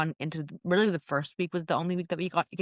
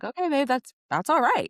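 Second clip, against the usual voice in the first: higher-pitched retold soothing; imitating a tender, placating reply; reassuring; 7 semitones higher than usual. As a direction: gently let a friend off the hook. Retold reassurance after friend's confession.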